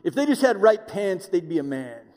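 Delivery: a hint of a grouchy old-timer complaining; older guys griping about young men's pants, lightly voiced; grumpy older guy. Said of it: "they're always like".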